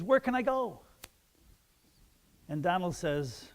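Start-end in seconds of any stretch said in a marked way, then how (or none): 0.0-0.8 pleading Lucy puppet. Acted. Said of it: "And she says".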